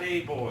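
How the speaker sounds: put-on wrong take saying "a boy" with an OY ending; mispronounced Newfoundland phrase. Shown as a demonstration. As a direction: say "a boy," rhyming the last word with toy. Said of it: "It's not".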